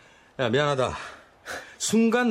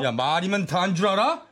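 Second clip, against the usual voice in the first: angry shout. Acted. Older stepbrother furious at insult.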